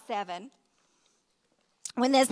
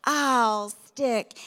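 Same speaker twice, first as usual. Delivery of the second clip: slow motion. Retold or imitated. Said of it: "speaking in slow motion".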